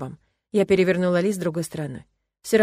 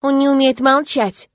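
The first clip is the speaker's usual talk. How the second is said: higher, louder, slow accusation; accusing outburst; 7 semitones higher, 9 dB louder, slower than usual. A narrator's reading. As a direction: blurt the accusation into silence. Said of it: "Обвинение прозвучало". (обвиняющий возглас)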